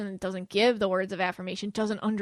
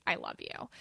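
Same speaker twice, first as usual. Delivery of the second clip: much lower and softer; deep hushed I love you; a different way; 11 dB quieter than usual. Retold or imitated. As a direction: drop it low and soft as another person's way. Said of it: "how they say".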